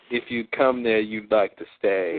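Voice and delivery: slow drawled rhyme, another person's voice; channeled persona. Retold or imitated. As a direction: drawl the rhyme like someone else entirely. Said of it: "the third one is".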